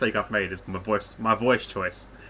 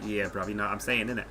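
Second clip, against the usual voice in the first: Roadman accent; 5 dB quieter than usual. Shown as a demonstration. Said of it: "a bit more Roadman".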